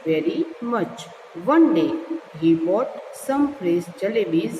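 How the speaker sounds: slow, measured story reading; story read-aloud. A narrator's reading. Teacher reads a jalebi story to learners, slow read-aloud. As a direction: read it slowly, word group by word group.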